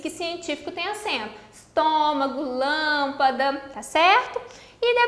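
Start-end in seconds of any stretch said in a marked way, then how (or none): 1.5-3.6 "Estômago, lâmpada" with TÔ and LÂM drawn out; stressed first vowels. Shown as a demonstration. Teacher listing proparoxytone examples, stretched stressed syllables in "Estômago, lâmpada". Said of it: "acentuamos todas as palavras proparoxítonas".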